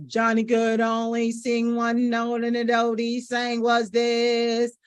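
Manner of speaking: one-note delivery, no inflection; monotone. Shown as a demonstration. Coach imitating a speaker stuck on one note, monotone. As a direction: hold every word on the same pitch. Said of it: "sound monotone".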